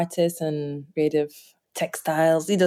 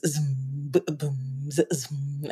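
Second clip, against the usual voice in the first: imitated drumbeat; 4 semitones lower, 8 dB quieter, much slower than usual. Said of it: "he heard z".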